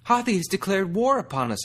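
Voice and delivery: loud, high frightened buck; shouted. A narrator's reading. A buck shouting to the warren in alarm. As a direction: cry out the news of war. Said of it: "a buck shouted".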